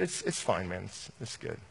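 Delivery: soft, half-swallowed reassurance; acted low-key denial, fading away; subdued brushing-off. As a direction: play a hurting kid insisting quietly. Voicing a hurting twelve-year-old.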